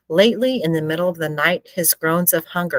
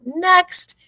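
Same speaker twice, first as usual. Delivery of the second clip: high, loud call of "next"; shouted; 14 semitones higher, 4 dB louder than usual. A narrator's reading. Official calling the queue forward, shouting. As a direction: call the next customer sharply. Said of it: "a man shouted".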